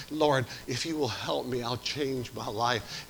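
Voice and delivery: put-on a touch of a drowning boy's prayer; softly crying out to God. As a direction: beg the Lord softly, slowing at the end.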